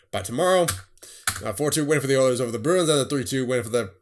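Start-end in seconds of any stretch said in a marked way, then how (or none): 1.4-3.9 rushed, breathless score list; hurrying through the results to keep up; talking fast. Real, not acted. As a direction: rattle the scores off quickly. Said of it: "I'm talking so fast right now".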